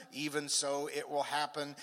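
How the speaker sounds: level, settled answer; reply with calm certainty; acted reassurance. Father answering a doubting believer, calm and certain.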